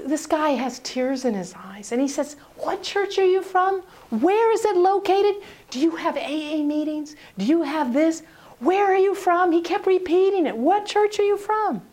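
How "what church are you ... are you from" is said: a hint of eager pleading. Eager tearful young man.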